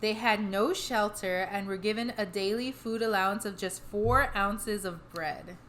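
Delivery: measured podcast read-aloud of history; scripted history narration. A narrator's reading. Telling the co-host the history behind the hauntings, measured narration. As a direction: read the history out steadily, phrase by phrase.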